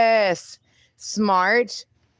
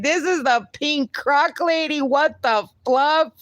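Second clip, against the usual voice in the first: higher, slowed mock amazement; imitating stunned viewers; 6 semitones higher than usual. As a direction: play a gawking fan, lightly. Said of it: "they would be like".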